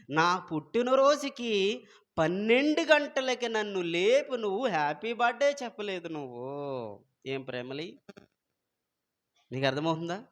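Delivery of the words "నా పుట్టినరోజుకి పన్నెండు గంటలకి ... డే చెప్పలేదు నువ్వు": higher, louder mock wife's demand. Preacher mimics a wife nagging her husband, mock demanding. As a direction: play the wife insisting on a midnight wake-up, half teasing.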